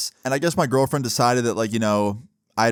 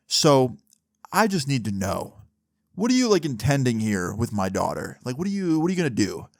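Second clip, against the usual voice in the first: protective dad talk. Retold or imitated. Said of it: "that classic, you know, protective dad talk".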